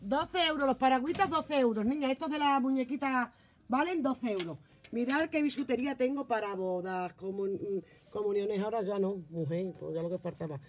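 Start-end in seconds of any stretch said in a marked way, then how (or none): 0.0-4.6 calling out. Real, not acted. Calling prices out loud.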